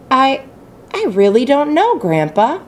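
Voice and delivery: stammering. Acted. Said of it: "Charlie stammered".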